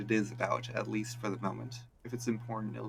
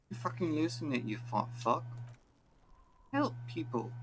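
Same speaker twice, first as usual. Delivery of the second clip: yelling; 6 semitones higher than usual. Acted. Kid yelling insults and help.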